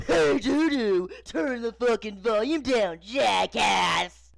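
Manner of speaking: loud, high shout mimicking dad; jeering full-volume holler; mocking yell. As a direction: yell it back mockingly, drawn out. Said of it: "mockingly yelling".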